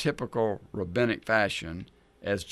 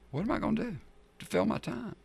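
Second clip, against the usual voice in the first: panicked question; 10 semitones higher, 6 dB quieter, faster than usual. Retold or imitated. Voicing his lockdown panic.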